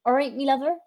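self-conscious go at a Bristolian accent. Shown as a demonstration. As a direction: greet like a Bristol local. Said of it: "Bristolian accent is".

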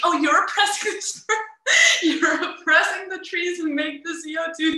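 loud, mocking self-righteous whine; preachy Twitter user. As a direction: ham up an outraged online scold. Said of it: "they would be like".

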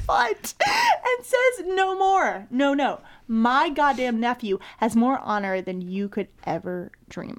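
swept-up fan retelling Iroh's words; excited retelling. Retold or imitated. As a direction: rave about Iroh's big moment. Iroh quote, excited retelling.

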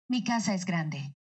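"Mi casa es grande" flowing, with falling end. Shown as a demonstration. Dubbing actress showing a natural affirmation, connected neutral delivery. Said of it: "si quiero que suene más natural".

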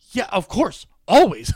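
always punched loud and bright; mock eager yes. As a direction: ham up a gushing yes. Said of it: "And you said".

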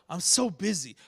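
low, deflated complaint; mock weary reply. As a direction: play the overworked person answering a greeting. Acted weary reply to greeting.

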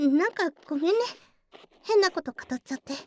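quick, sheepish laughing apology; brushing off her own earnestness with a giggle; embarrassed laugh. Real, not acted. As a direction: laugh it off, a little flustered. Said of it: "つい熱くなっちゃった".

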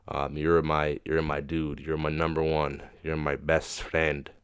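put-on soft, slow Indian accent; tender farewell in an Indian accent. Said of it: "there's my Indian accent again".

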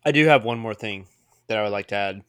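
talking through a mouthful of nachos; chewing while speaking; mouth full. Real, not acted. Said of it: "I'm eating mini nachos as we wrap up".

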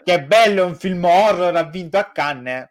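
high, loud mock delight; mock enthusiasm. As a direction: gush like a fake fan. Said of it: "Invece di dire".

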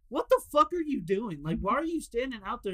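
retold disbelief. Retelling friend confronting the beggar.

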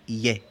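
"ye" as a gliding i-e diphthong; diptongo ye. Shown as a demonstration. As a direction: glide from i into e on "ye". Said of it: "No se escucha el diptongo". ("ye" como diptongo, "ié")

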